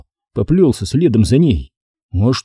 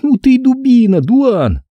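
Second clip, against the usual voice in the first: high, mocking girl's voice; girl teasing; 12 semitones higher than usual. A narrator's reading. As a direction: tease him, amused. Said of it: "пробормотала она". (девочка дразнит)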